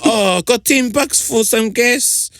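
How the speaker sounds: slow cadging ask. Retold or imitated.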